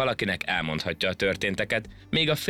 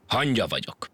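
mildly huffy, higher-pitched; offended; 4 semitones higher than usual. A narrator's reading. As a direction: insist on it, a little affronted. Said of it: "mondta sértődötten a hangya". (kissé sértődötten)

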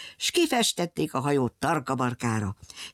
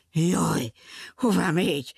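frightened cry. Acted. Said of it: "kiáltotta rémülten a bohóc".

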